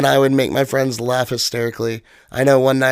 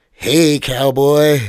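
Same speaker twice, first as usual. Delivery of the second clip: lightly imitated slow cowboy hail; stranger's greeting; much slower than usual. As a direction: draw out the greeting a little. Retold stranger's bathroom greeting.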